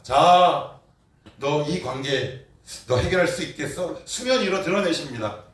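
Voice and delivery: high, loud mocking challenge; taunting angel's call; challenging angel voice. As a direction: dare him like a heavenly messenger. God's messenger voiced challenging.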